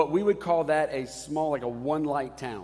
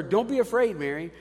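angel speaking. Retold or imitated. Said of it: "the angel said to her".

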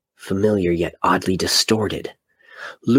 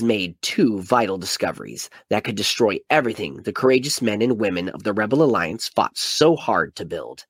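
epic trailer narration. Acted. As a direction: sell it like a movie trailer. Reads blurb as epic trailer.

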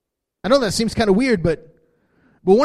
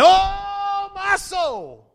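much higher, loud, slow shouted plea; speaking to your soul; 9 semitones higher, 6 dB louder, much slower than usual. Shown as a demonstration. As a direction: command your own soul, full force. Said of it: "just start saying".

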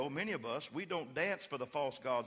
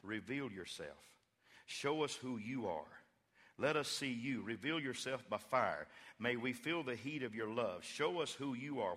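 quiet prayer; 2 semitones lower, 3 dB quieter than usual. Retold or imitated. Elijah pleading softly for God to answer by fire. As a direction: beg God gently to show himself. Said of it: "He said".

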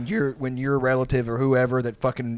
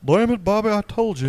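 higher, louder Texan dad voice; Hank Hill impression; 9 semitones higher, 5 dB louder than usual. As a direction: scold Bobby like Hank Hill.

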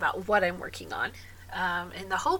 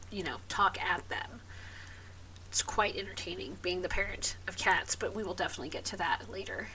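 whispering; 2 semitones lower, 6 dB quieter than usual. Real, not acted. Hushed aside about the cats.

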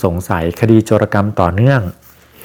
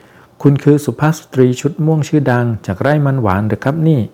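excited; 4 semitones higher than usual. Acted. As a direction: play the assistant thrilled to recognise a celebrity. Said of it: "แล้วพูดอย่างตื่นเต้น".

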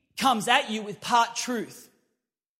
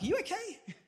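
much higher, laughing through it; laughing question; 10 semitones higher, 5 dB quieter than usual. Retold or imitated. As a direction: ask it while laughing. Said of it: "And I'm like".

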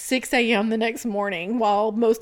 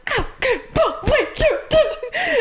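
slow, high, laughing mock scolding; hammed-up scolding mom; exasperated mom; 12 semitones higher than usual. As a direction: mimic mom fed up.

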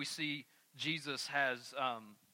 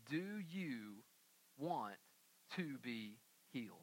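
softer, lower, tender asking; gentle soft question; 6 semitones lower, 8 dB quieter than usual. Retold or imitated. Jesus asking the sick man, softly and gently. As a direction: ask it gently, almost hushed. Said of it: "Jesus approaches the man and says".

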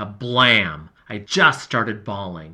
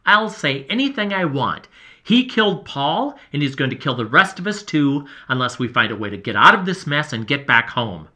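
angry accusation; 2 semitones higher, 4 dB louder than usual. Acted. Heated quarrel.

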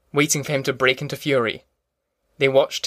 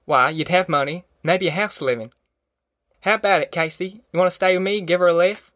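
lightly voiced country man urging a plan; persuasive Tom; 4 semitones higher than usual. Tom talking Casey and family round, lightly acted persuasion. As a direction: reason it out in rural dialect.

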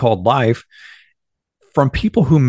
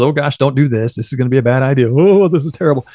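scaredy cat voice; faster than usual. Retold or imitated. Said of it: "Not the little scaredy cat voice".

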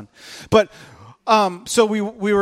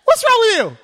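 high, loud and laughing; mock exasperated yell; 14 semitones higher, 7 dB louder than usual. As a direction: shout it at the kid half-laughing. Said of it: "And so I'm like".

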